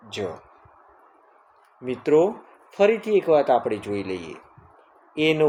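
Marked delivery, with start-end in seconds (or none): 0.1-0.3 જ as a lone "juh"; letter-sound demo. Shown as a demonstration. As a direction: sound out જ on its own. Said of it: "ઝેડનો ઉચ્ચાર થાય". (જ નો અલગ ધ્વનિ ઉચ્ચાર)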